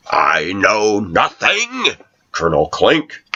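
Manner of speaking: slow, lightly voiced Sergeant Schultz; a hint of the bumbling guard pleading ignorance; Schultz impression. Quoting Hogan's Heroes to a coworker, a light slow Schultz voice.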